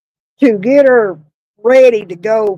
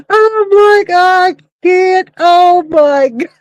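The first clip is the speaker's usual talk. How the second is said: laughing; 4 semitones higher, slower than usual. Real, not acted. Laughing retelling shocked reaction.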